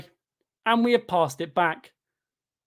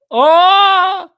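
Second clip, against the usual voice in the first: sudden loud oh of hope, cut short; a real burst of excitement over a chance; excited shout; 12 semitones higher, 13 dB louder than usual. Real, not acted. Fan watching a match suddenly yelling oh in excitement. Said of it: "Why'd I get excited?".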